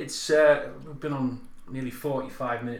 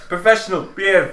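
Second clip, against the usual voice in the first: trying not to laugh; 6 semitones higher, 10 dB louder than usual. Real, not acted. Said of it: "I'm trying to be professional".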